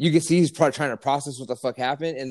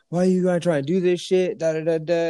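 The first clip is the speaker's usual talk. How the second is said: mock trash talk; 6 semitones higher than usual. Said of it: "walking behind him, like".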